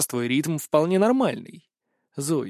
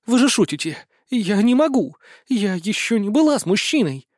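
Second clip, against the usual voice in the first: panicked; 5 semitones higher than usual. Acted. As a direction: plead in rising panic. Zoe panicking. (высокий, громкий панический протест)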